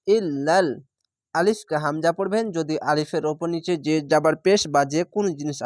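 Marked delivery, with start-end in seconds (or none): 0.1-0.7 ইল্লাল recited with the doubled ল held and a rising end; Quranic recitation. Shown as a demonstration. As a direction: chant ইল্লাল cleanly, tajweed style. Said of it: "লাম লামজা লাল".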